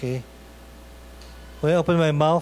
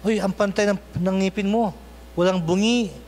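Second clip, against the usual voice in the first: teasing husband; 3 semitones higher than usual. Retold or imitated. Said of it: "sabi niya".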